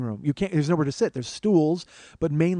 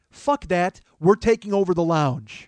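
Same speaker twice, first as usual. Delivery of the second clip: crowd cheer; 5 semitones higher, 7 dB louder than usual. Retold or imitated. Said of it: "as a group, decided".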